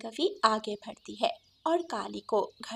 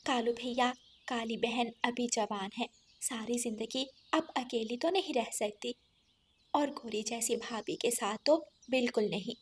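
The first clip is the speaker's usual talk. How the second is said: softer, earnest advice; earnest sparrow; 7 dB quieter than usual. Acted. Sparrow advises brother to remarry his sister, soft. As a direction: counsel him quietly.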